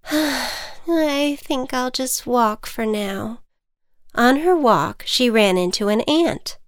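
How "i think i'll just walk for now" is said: butterfly voice. Acted. Sighing butterfly gives up flying.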